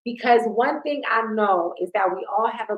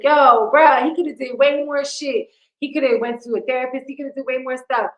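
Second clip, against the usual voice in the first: exasperated retort; 4 semitones higher, 5 dB louder than usual. Retold or imitated. Retells her exasperated reaction.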